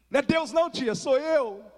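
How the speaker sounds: spring the surprise on the aunt at the door; playful surprise reveal. Retold or imitated. Nephew reveals himself to his praying aunt, playful and high.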